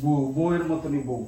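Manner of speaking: slow sarcastic jab at the wife; slow mocking shout; mocking drawn-out shout. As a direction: drag out the words scornfully.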